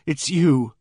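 forlorn and frightened. Acted. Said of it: "indescribably forlorn and frightened".

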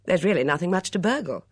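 a touch of hearty good humour; cheerful. A narrator's reading. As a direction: toss it off cheerfully. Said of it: "said Miss Blacklock cheerfully".

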